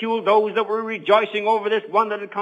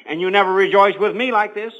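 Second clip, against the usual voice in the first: put-on mildly aggrieved older son; complaining. Older son to his dad about never being rejoiced with, complaining. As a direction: lightly act out a son's grievance. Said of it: "he complained to his dad".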